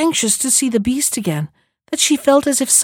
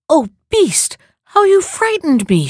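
high, relieved cry of reproach; 7 semitones higher than usual. A narrator's reading. Beauty to the reviving beast after her fright, crying out. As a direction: cry out in a much higher voice. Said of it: "she cried".

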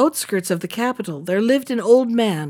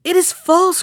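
higher, louder protest; indignant denial; 8 semitones higher, 5 dB louder than usual. A narrator's reading. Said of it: "cried the minister's son".

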